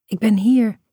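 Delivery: mild high-pitched peep; small squeak. A narrator's reading. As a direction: squeak it like a child piping up. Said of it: "piep ik".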